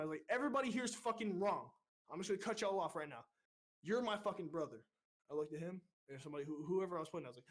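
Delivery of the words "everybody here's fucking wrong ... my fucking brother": high, forceful correction starting loud; retold angry outburst. Recruit leader cutting off both divisions, angry correction. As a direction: re-enact cutting the whole group off.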